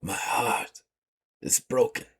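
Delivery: heartbroken pirate. Acted. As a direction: let the words break as you give up. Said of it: "looks at you and goes".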